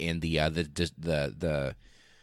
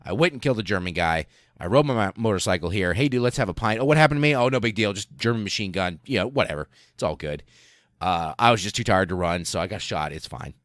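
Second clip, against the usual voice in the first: super casual. Retold or imitated. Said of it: "super casual".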